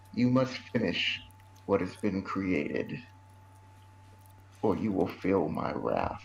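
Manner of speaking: low, soft, hushed, menacing, threatening half-whisper. Voicing a staring figure who gives Denver a command: soft menacing half-whisper. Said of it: "a really soft but menacing type whisper".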